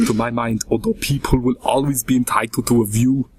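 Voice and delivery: lightly voiced Austrian accent; a hint of an Austrian action-star accent; Arnold Schwarzenegger voice. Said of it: "This is my Arnold Schwarzenegger impression".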